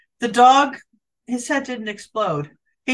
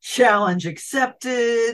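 slow deadpan; much slower than usual. Pretend. Mock accepting challenge.

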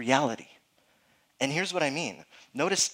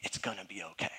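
soft reassurance; 5 semitones lower, 9 dB quieter than usual. Retold or imitated. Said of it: "you look at 'em and you say".

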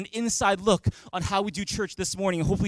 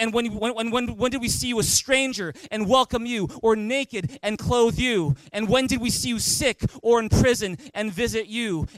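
raised, projected scripture reading; big, loud voice; 3 semitones higher than usual. Real, not acted. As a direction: lead the congregation reading aloud. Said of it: "read this in a big, loud voice".

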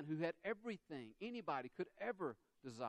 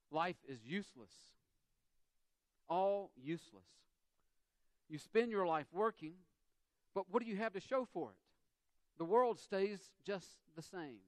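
Solomon's lament; 4 semitones higher, 5 dB louder than usual. Retold or imitated. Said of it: "he says this".

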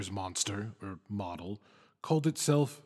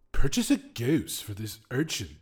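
pushy, louder demand; whim's demand; 2 semitones higher, 5 dB louder than usual. Acted. The whim demands a goose, louder and pushy. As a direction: lean into the order, mildly menacing.

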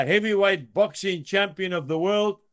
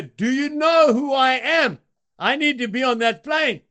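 higher and louder, full of self-importance; indignant demand; 5 semitones higher, 3 dB louder than usual. Retold or imitated. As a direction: puff up like a big shot. Important businessman demanding his seat.

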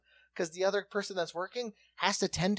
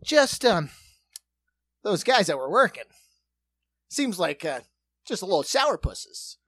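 mock reviewer voice; 2 semitones higher, 4 dB louder than usual. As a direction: play the smug reviewer, light and sing-song. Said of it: "And it was like".

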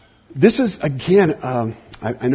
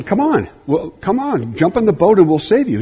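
calling out; 5 semitones higher than usual. Retold or imitated. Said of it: "they're calling out to Bob saying".

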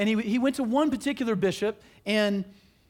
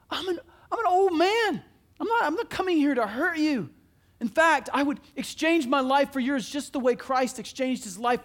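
pleading call; 5 semitones higher than usual. Acted. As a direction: call out to the fleeing man, near tears. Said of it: "John screams out and says".

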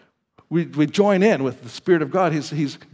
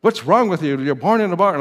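retold scolding, a little higher; mock angry scolding; 4 semitones higher, 5 dB louder than usual. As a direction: imitate a mad host, mildly. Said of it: "his host lady was so mad".

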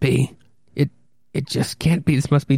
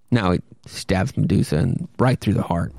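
usual speaking voice

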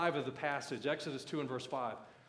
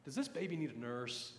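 Miriam; slower than usual. Acted. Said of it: "right there is Miriam to say".

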